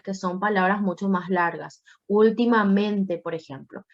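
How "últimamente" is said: "Últimamente" slowly, stressed on "Úl" and "men"; double stress. Shown as a demonstration. Teacher shows a word with two tonic syllables, stressing "Últimamente" twice. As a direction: draw out "Últimamente", leaning on "Úl" and "men". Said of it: "carga de voz en la pri".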